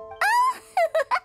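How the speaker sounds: short, high burst of laughter; high-pitched laugh. Acted. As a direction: let out a high little laugh. Startled outburst after hearing the revelation.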